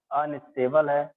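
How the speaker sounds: slow, drawn-out words for note-taking; slow dictation. Real, not acted. Teacher writing out the point for the class, slow dictation. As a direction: dictate it slowly, word by word.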